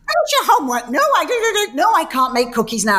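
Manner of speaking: high, rushed mock mum brushing the kids off; frazzled busy mum. A busy TV-host mum rushing her kids off before work, high and hurried. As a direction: play the harried mother fobbing off her children. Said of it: "And I'm like".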